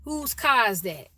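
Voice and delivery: car said "cah" in a Chicago question; Chicago accent. Shown as a demonstration. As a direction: ask it Chicago style, no R in car. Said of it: "We say car".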